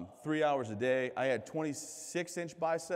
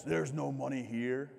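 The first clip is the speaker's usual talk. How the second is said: grave recruiter; slower than usual. Retold or imitated. Marine's slow grave reply.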